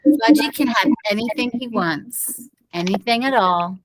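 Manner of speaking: put-on slow doting baby talk; cooing mother. Mother kissing baby Fudge home from hospital, slow and doting. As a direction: coo over the baby, slowly.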